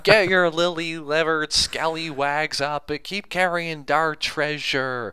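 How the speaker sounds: high, loud hammed-up pirate captain; annoying boss pirate voice. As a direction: ham it up like a cringey boss playing pirate. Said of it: "it's your annoying boss on Talk Like a Pirate Day".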